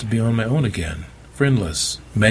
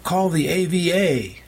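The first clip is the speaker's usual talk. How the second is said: calling back; 10 semitones higher than usual. A narrator's reading. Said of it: "called back".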